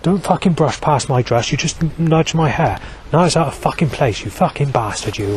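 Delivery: a touch of posh, nasty indignation; snobby nineties woman. Acted. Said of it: "females of the nineteen nineties".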